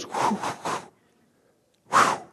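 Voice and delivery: whooshing hype exhale; mock hype breath. Rally guy whooshing as the car lights pop. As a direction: blow out a hyped whew. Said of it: "and he goes".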